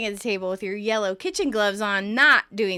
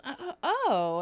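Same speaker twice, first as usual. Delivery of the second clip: taken aback; 5 semitones higher than usual. Retold or imitated. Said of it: "taken aback".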